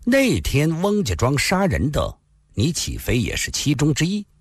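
calm, deliberate accusation; a young swordsman slowly exposes the hero's betrayal; slow and measured. Acted. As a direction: spell out the charge slowly and coolly. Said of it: "缓缓地说道".

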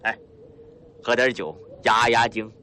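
a hearty, swaggering northeastern boss, lightly voiced; a boastful mountain boss, mildly put-on; rough bandit chief Lao Hu. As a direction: play the sly bandit chief, chuckling at his guest.

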